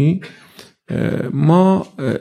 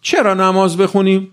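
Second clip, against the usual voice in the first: چرا نماز بخونیم raised, stress on چرا; questioning youth; 5 semitones higher than usual. Shown as a demonstration. Preacher shows how youth ask about prayer, raised questioning tone. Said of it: "اینجوری نمیپرسه، اینجوری".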